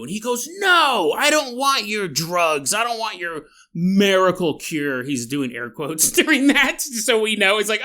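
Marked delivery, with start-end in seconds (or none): 0.6-5.0 a lightly voiced caged man, scoffing; hammed-up defiant refusal. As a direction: play the stubborn captive, slowly sneering at the cure.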